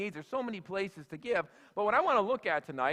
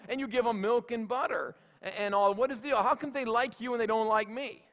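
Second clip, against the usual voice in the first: pig's aggrieved complaint, pitched higher; a lightly voiced pig, hurt and indignant, pleading its case; whining pig; 4 semitones higher than usual. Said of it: "and the pig says".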